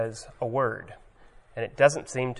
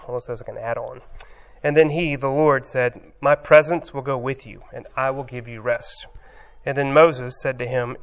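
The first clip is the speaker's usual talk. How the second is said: measured, raised reading of the passage; scripture reading; 3 dB louder than usual. Acted. Preacher reads Moses and the Lord aloud, formal scripture reading. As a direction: read the Bible text to the congregation.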